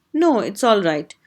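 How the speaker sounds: ordinary talk, nothing marked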